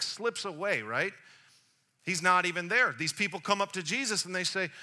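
normal talking voice

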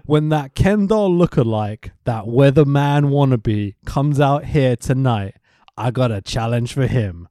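put-on half-done accent, deliberate promo delivery; Scott Hall. Wrestler issuing a challenge for tonight, half-done accent. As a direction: imitate a wrestler's challenge, phrase by phrase. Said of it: "I love the way he says Nacho Man".

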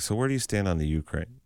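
straight-faced serious interviewer; dead serious. Pretend. Radio host mock-interviewing a comedian, dead serious. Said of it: "just dead serious".

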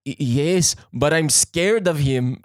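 halting, badly faked French accent; hammed-up French accent, hesitant and slow; terrible French accent. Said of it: "that's a terrible French accent".

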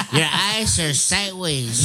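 slow, high taunt broken by laughter; laughing mock taunt. Retelling island insults to friends, high slow laughing. Mocking what islanders tell him.

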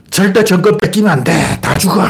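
mock desperate partisan. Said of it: "뭐 이래".

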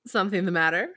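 low, smooth Frasier read. Acted. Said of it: "you will be Frasier".

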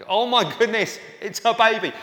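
high, loud, doting gush; gushing over a baby. Retold or imitated. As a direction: coo at a newborn in delight. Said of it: "you find yourself saying the dumbest things".

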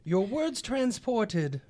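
very slow, stretched-out recitation; slow riddle recital. Acted. Rereading the riddle's second line for the party, slow and drawn-out. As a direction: draw every word right out.

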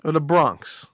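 a hint of New York accent in the question; light New York accent. Host asking the caller where he's from, in a light New York accent. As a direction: ask it like a guy from Brooklyn, lightly New York. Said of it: "I love that New York accent".

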